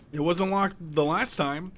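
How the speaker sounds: high, slow, loud complaint; loud protest. Real, not acted. Gamer baffled by the locked door, high loud protest. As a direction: protest it, dragging the words out.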